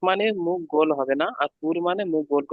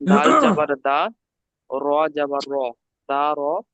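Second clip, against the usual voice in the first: slow, louder letter-by-letter spelling; slow spelling demo; 3 dB louder, slower than usual. Shown as a demonstration. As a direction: spell each letter out clearly for the student. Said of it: "এখানে ইজরা করতে হবে।". (ধীরে জোরে বানান করে দেখানো)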